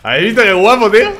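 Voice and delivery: high, loud burst of delight; thrilled, showing off the find; excited. Real, not acted. Streamer thrilled showing viewers the new item, excited high burst.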